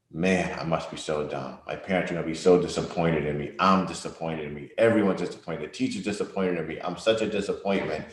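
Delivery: dejected self-talk. Retold or imitated. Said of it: "the emotions of".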